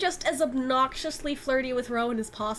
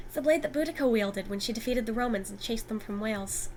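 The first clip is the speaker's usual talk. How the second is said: The speaker's own voice. Acted. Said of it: "that is not your voice".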